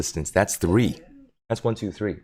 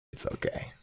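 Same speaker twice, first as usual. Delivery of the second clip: soft whisper to dog; 13 dB quieter than usual. Real, not acted. Soothing the dog.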